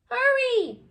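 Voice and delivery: high loud urgent cry; shout. Acted. Friends shouting at slow Wilbur, loud urgent. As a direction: hurry him along with a shout. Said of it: "his friends shouted".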